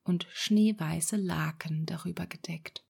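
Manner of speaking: whispered story reading. A narrator's reading. Storyteller whispering Snow White to a sleepy listener. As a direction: breathe the tale out gently in a whisper.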